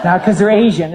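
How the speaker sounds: firm correction, NOT punched; stress on not. Shown as a demonstration. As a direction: insist on the NOT.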